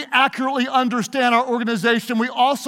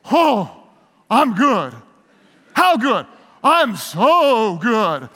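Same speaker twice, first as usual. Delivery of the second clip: smug boaster; much slower than usual. Retold or imitated. Acted dialogue, boaster.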